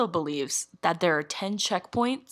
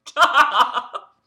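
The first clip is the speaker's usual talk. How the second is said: high, loud, laughing stop; laughing protest; 8 semitones higher, 8 dB louder, much slower than usual. Real, not acted. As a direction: giggle through the protest.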